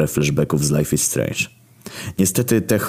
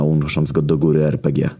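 ordinary delivery, nothing marked

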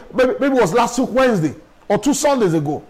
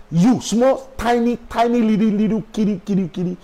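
mock baby talk. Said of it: "I say".

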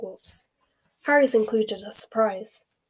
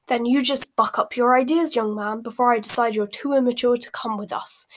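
stern, louder mother's rebuke; angry scolding; 3 dB louder than usual. Acted. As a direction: scold him to put him in line. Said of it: "said Missus Weasley angrily".

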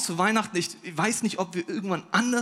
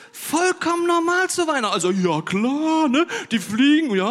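mock matter-of-fact; 8 semitones higher, 6 dB louder than usual. Ironic aside about reindeer.

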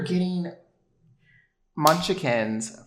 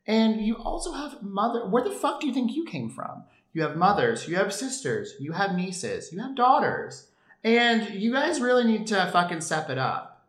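indignant; 6 semitones higher than usual. Real, not acted. Rising indignant rant.

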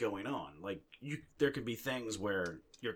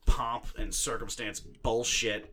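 mock Nolan; 2 semitones higher, 5 dB louder than usual. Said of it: "Christopher Nolan doesn't say".

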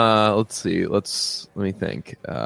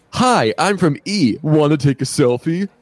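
mock entertainment reporter; 5 semitones higher than usual. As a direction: lightly parody a perky celebrity reporter, higher. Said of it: "it's just people asking dumb, stupid things".

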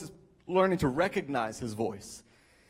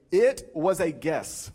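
slow, spaced-out clarification; slow correction; 2 semitones lower, much slower than usual. Retold or imitated. Explaining what the friend was trying to say, slowly. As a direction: spell out the intended meaning slowly. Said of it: "he was trying to say".

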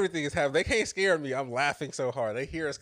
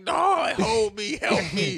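high, loud imitation of a terrified child; panicked crying kid; 9 semitones higher, 10 dB louder, slower than usual. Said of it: "she crying".

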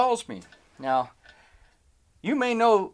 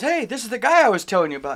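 raised, louder announcing voice; excited introduction; 6 semitones higher, 5 dB louder, faster than usual. Retold or imitated. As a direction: imitate someone proudly calling the table's attention. Coworker announces him to the group.

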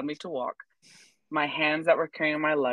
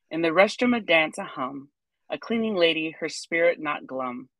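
measured, rhythmic poem recital; poem reading. Acted. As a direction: read your little psalm with gentle cadence. Reads her own poem aloud.

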